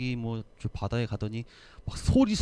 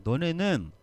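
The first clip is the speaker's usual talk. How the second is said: regretful. Retold or imitated. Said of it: "너무나도 안타까워요".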